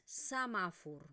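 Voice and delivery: "samafur" with a neutral first vowel and a u at the end; Eastern Catalan. Shown as a demonstration. Teacher modelling Eastern Catalan "samafur". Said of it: "lo que vamos a pronunciar es".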